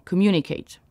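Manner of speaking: "communicate" with the weight on MU; stress on second syllable. Shown as a demonstration. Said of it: "l'accent technique sur la deuxième syllabe". (« communicate » accentué sur la deuxième syllabe)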